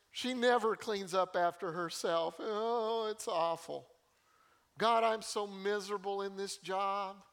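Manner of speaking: a lightly whiny complaint to God; hammed-up grumbling prayer; half-hearted whine to God about a roommate; mock whining. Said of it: "we can be whiners to God".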